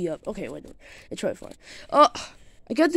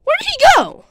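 high, loud exclamation; alarmed question; 14 semitones higher, 6 dB louder than usual. Pretend. Finding the monster gone, alarmed question. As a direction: cry out high in surprise.

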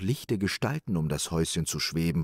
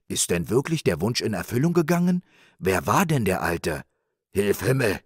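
louder, worked-up self-reproach; agitated astonishment; 3 semitones higher, 4 dB louder than usual. Acted. Rich man realising whom he turned away, agitated. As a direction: realise your blunder out loud.

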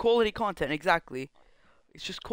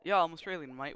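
put-on Australian accent; 3 semitones lower, 5 dB quieter than usual. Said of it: "Stop with the Australian accent".

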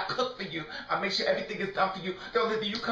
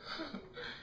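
quiet laugh escaping high; high, soft giggle; 11 semitones higher, 14 dB quieter than usual. Real, not acted. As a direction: let out a small high laugh. Laughing after he left.

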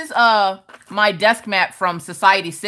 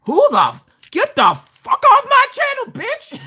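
retold cuss-out; 4 dB louder than usual. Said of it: "And I was like".

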